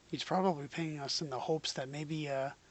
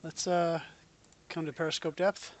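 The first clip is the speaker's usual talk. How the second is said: captain's order; 2 semitones higher, 6 dB louder than usual. Pretend. Captain ordering periscope depth.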